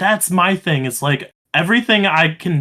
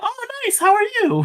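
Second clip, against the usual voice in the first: sudden leap into a very high register. Retelling answering a man who greeted them at work, voice shooting way up. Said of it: "my voice went up forty-five octaves".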